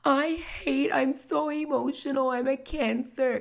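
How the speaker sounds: exaggerated high girlish complaint; imitating young woman. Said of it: "she's like".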